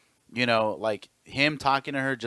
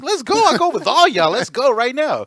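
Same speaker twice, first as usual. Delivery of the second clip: high, loud shout daring them to fight; shouting challenge; 14 semitones higher, 11 dB louder than usual. Retold or imitated. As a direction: yell it, ready to brawl.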